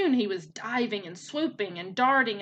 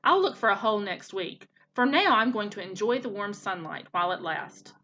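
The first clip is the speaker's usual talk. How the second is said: croaking frog. Acted. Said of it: "croaked the first frog".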